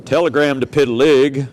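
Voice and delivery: wolf growling at the pig's door; big bad wolf. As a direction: drop way down like a menacing wolf. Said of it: "And he says".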